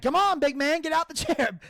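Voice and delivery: mock tough-guy challenge; taunting challenge. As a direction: goad a big man into a fight.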